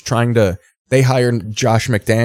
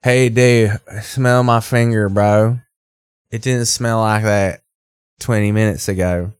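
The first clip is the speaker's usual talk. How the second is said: mock drunk slur; slower than usual. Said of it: "has the subtle drunk slur that he's like".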